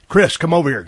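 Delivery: imitating the boss calling out. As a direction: summon him loudly, as the boss did. Booker calling someone over.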